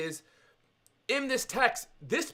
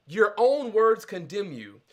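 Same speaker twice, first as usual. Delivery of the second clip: angry king; 3 semitones higher, 5 dB louder than usual. Retold or imitated. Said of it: "legit upset at this".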